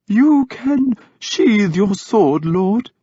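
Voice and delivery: high, slow soothing priest voice; gentle. Acted. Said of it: "he said gently".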